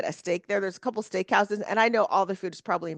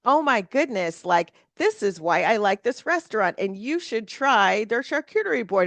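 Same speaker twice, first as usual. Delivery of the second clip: lightly voiced, gushing auntie; 3 semitones higher than usual. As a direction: gush over the charcuterie board like an eager aunt. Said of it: "that auntie in the corner going".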